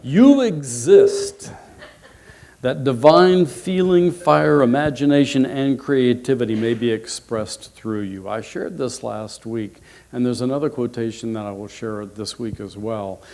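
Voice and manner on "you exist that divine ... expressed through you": emphatic proclamation. Real, not acted. Speaker sharing last week's quotation with the audience, proclaiming loudly. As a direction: proclaim it boldly to a congregation.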